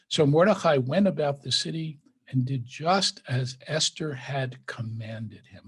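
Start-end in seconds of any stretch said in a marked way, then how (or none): 2.6-5.6 slow, deliberate weight on "commanded"; slow down and lean on "commanded"; emphasis on commanded. A narrator's reading. Teacher pointing out Esther's order to Mordecai, emphasis on "commanded". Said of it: "I want to emphasize the word commanded".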